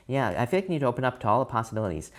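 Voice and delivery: quick, rushing delivery; rushed. Real, not acted. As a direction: speak too quickly, as if hurried along. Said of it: "I'm speaking too quickly".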